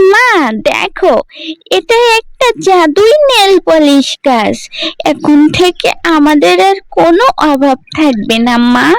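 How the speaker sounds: put-on young girl, bright and excited. Priya showing her mother the magic tree, excited. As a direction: show mother the miracle eagerly.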